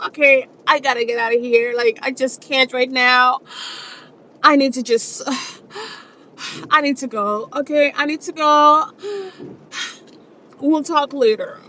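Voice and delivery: put-on tearful exit, broken by sighs; fake crying. Shown as a demonstration. Wife needing to get away from Bob, fake crying. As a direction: sigh and break off as if overcome, mock upset.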